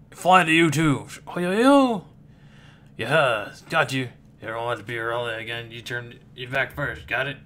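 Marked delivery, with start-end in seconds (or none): 1.3-2.0 high, louder yelp; panicked yelp. Acted. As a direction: yelp in alarm. Panicked reaction after being zapped.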